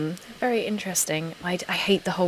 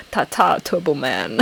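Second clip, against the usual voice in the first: lower-pitched action-star impression; Arnold Schwarzenegger; 5 semitones lower than usual. Quoting the action star for viewers, low impression. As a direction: drop the pitch, Austrian-style accent. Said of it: "for all the Arnold quotes".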